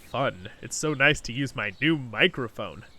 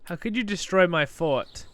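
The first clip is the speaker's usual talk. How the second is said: mock outrage; 6 semitones higher, 7 dB louder, slower than usual. Mock outrage at destroyed fort.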